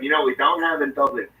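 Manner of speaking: slow, drawn-out put-on voice breaking into laughter; mocking Irish guy. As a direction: stretch it out, cracking up. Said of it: "He's like".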